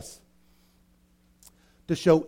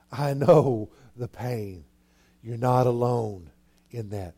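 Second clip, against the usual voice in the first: gentle comfort; 4 semitones lower, slower than usual. Acted. Comforting a hurting friend.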